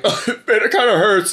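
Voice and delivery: mild mock pain. Evan reacts to milk leaving his nose, mock pained. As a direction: draw it out as if it hurts a bit. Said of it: "And then he starts like".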